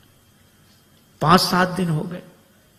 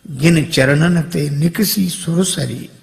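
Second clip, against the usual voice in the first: slow verse recitation; slower than usual. Shown as a demonstration. Quoted verse, devotional recitation.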